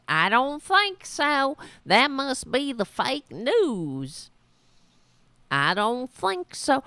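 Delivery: mock the voter's stubborn denial, drawn out; mocking imitation. Host mocking an interviewed voter, lightly hammed dismissive tone. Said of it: "they bounce right off their heads".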